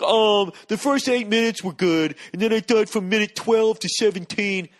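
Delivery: lightly voiced smug show critic; snooty critic. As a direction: sneer like a know-it-all reviewer. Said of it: "be like".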